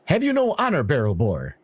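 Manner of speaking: high, reproachful outburst, falling at the end; indignant yell. Acted. Half-elf confronts the dwarf on the dock, indignant yell. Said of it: "she yells".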